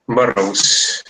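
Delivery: Burroughs pronounced "BA-rous", English-style vowels; pronunciation demo. Shown as a demonstration. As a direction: model the name Burroughs as "BA-rous". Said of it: "¿Se pronuncia así?". (Burroughs pronunciado «bárous», a la inglesa)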